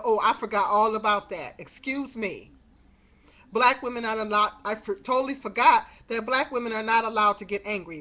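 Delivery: loud, biting sarcasm; loud mock-innocent sarcasm; sarcastic retort. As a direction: throw it back at him mockingly. Sarcastic retort to her son.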